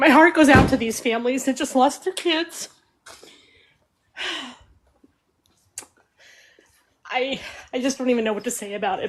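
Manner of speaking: voice catching, choked up, fighting back tears. Sending sympathy to families who lost their kids, holding back tears. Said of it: "try to do this without crying".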